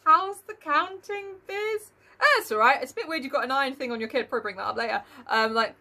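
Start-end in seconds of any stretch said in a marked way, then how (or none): 0.0-1.9 drawled slow, mock gruff Scrooge. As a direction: play a stiff miserly guest, slowly. Mocking Scrooge at Cratchit's house.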